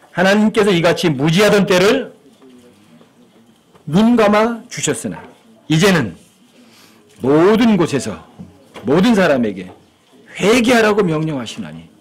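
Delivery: measured, drawn-out Bible reading; solemn, deliberate recitation; scripture reading. A narrator's reading. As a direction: read the verse out phrase by phrase with long pauses. Reads scripture aloud.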